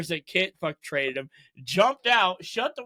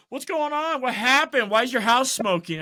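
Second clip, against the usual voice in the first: higher-pitched startled questions; retold alarm, pitched up; mock alarmed questioning; 6 semitones higher, 3 dB louder than usual. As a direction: imitate someone demanding to know what happened. Acts out a questioner finding smoke.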